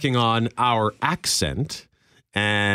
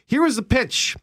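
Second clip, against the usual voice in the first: editor voice reading; 12 semitones higher than usual. Retold or imitated. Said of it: "Back to Billy Baker's article".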